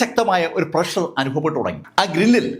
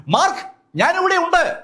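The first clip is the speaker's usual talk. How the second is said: higher call back from below; 12 semitones higher than usual. A narrator's reading. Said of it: "കമാൻഡർ Gavin ഉറക്കെ വിളിച്ചു". (ഉയർന്ന സ്വരത്തിൽ തിരിച്ചു വിളിക്കൽ)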